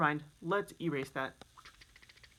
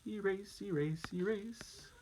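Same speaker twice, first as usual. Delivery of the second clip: whisper; 3 semitones higher, 4 dB quieter, slower than usual. Pretend. Playful erasing chant.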